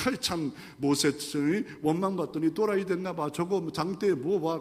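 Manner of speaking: soft, muttered mockery; quiet sneering complaint; scoffing aside. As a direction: grumble sceptically among themselves. Scoffing Israelites.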